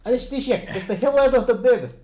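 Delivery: loud call across the room. Acted. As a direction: summon the nurse sharply. Doctor calls out to nurse.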